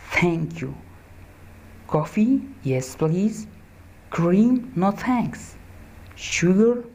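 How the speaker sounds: lightly voiced tourists chatting; slow textbook dialogue read for learners; acted dialogue. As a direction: read both roles of the dialogue, slow and clear. Acts out a dialogue script.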